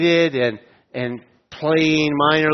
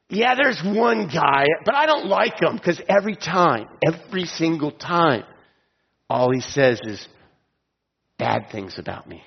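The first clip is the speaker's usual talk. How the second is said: whiny King Ahab; 2 semitones higher than usual. Retold or imitated. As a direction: lightly voice a sulking king complaining about the prophet. Mocking paraphrase of Ahab.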